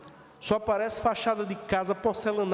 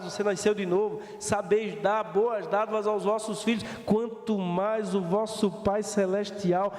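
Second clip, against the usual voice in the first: scripture reading; 4 semitones lower than usual. Acted. Pastor reciting scripture to the church, solemn. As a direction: read the verse reverently.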